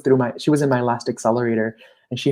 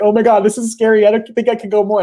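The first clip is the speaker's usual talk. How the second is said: mock panic, much higher and louder; imitating a scared client; 10 semitones higher, 7 dB louder, faster than usual. Coach retelling a client's fear of growing, hammed-up higher, louder panic. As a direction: play the client who thinks she can't go on, pitched way up. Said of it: "they're like".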